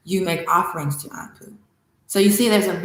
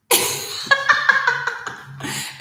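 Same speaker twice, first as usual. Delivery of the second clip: high burst of delighted laughter; real laugh. Real, not acted. Teacher laughing at her comedy plan, high delighted laugh.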